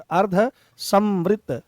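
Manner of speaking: अर्धसमृत drawn out very slowly, every syllable clear; careful pronunciation. Shown as a demonstration. Teacher models अर्धसमृत for students, slow and careful. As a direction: spell out अर्धसमृत slowly and distinctly. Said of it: "इनका उच्चारण भी बहुत अच्छे से किया करो".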